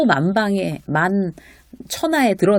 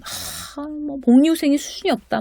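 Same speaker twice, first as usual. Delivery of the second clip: breathy sigh into a higher-pitched gripe; habitual grumbling; 7 semitones higher than usual. Acted. Employee complaining about company benefits over coffee mix, mock grumbling. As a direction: mimic a whiny workplace complainer. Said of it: "습관적으로 불만을 이야기하는 거".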